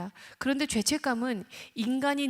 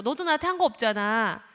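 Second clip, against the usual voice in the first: judging retort; 5 dB louder than usual. Retold or imitated. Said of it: "판단 들어가".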